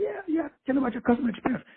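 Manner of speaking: imitating supervisor. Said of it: "supervisor come on line".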